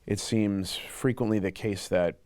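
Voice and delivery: deep pitch-shifted anonymous voice; disguised voice. Real, not acted. Anonymous interviewee, voice masked.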